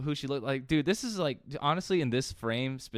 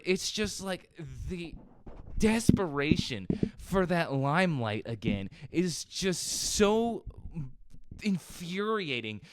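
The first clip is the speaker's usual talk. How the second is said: exasperated, higher-pitched venting; infuriated rant; 5 semitones higher than usual. Real, not acted. Real fan of a band venting about the new vocalist, infuriated. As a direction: push the key words in real frustration. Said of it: "This is a fucking rant".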